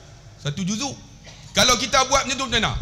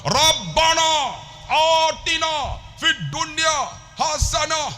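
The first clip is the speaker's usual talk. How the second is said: high, slow called-out chant; leading prayer; 7 semitones higher, slower than usual. Retold or imitated. Guide leading pilgrims in Rabbana, high slow call. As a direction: call it out phrase by phrase for followers. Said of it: "Sampai Rabbana tu".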